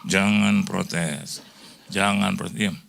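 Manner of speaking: very slow, low-pitched warning; retold motherly admonition. Mother silences protesting child, slow low admonition. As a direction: draw out each word to quell a complaint.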